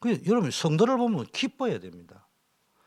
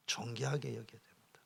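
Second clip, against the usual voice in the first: solemn whisper; 3 semitones lower, 14 dB quieter than usual. Acted. Pastor urging honour for believers, whispered. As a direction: whisper it, reverent.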